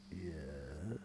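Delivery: low, soft, drawn yes; deep wary yes; suspicious butler. Acted. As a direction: eye them up and say it coldly.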